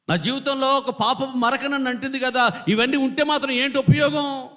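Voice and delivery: high, anguished preacher's cry; David's weeping lament. Acted. Preacher voicing David weeping over his sin, high lament. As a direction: act out grieving over a sinful stain. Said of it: "అని ఏడ్చాడండి".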